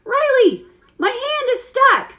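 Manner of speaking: calling the daughter for help with stuck hand, laughing; yelling across room. Retold or imitated. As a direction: call out across the store. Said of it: "I yell out across the room".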